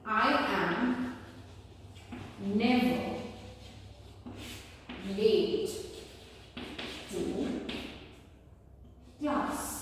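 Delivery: each word of "I am never late to class" said alone with long pauses; slow, spaced classroom dictation. Shown as a demonstration. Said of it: "I say".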